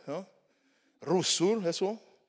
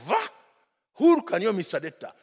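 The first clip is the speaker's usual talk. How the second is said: raised, loud exclamation of disbelief; astonished reaction; 6 semitones higher, 8 dB louder than usual. Retold or imitated. Young convert reacting to a preacher, astonished. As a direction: burst out, amazed at the offer. Acts out his reaction to the sermon.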